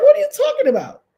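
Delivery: high, fast, laughing incredulous "what"; laughing disbelief. Retold or imitated. Streamer laughing as she retells her disbelief. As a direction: laugh through the question.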